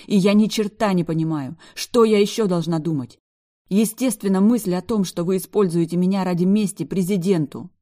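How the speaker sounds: loud, high, indignant tirade; furious rant. A narrator's reading. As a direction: pour out every grievance at him. Rant continues, clapping.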